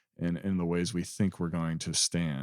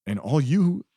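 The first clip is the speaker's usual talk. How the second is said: a touch raised and louder, eager welcome; lightly voiced Jesus inviting; 3 semitones higher, 4 dB louder than usual. Jesus calling the beggar in, rising eager invitation. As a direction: offer the feast gladly, voice lifting. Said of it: "That's this message from this parable".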